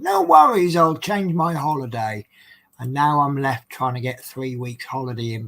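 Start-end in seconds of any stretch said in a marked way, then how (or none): 0.0-2.3 high, carefree "no worries"; breezy cheerful reply. Retold or imitated. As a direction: toss it off cheerfully. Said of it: "so I stupidly said".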